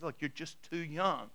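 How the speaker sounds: soft, slow, gentle refusal; lightly voiced patient father; loving dad. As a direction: let the child down gently. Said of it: "loving dad, good dad, says".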